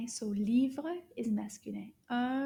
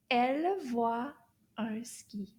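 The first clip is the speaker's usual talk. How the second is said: model sentence. Shown as a demonstration. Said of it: "Let's say it all together".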